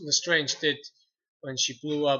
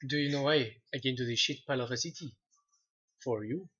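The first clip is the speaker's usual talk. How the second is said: lightly voiced Oberyn in a Spanish accent; 4 semitones lower than usual. Shown as a demonstration. Quoting Oberyn Martell's threat in Spanish accent. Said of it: "my Spanish accent".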